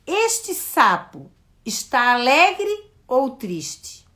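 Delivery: put-on slow, clear question to a small child; asking a child. Shown as a demonstration. Teacher asking a child slowly. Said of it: "eu pergunto".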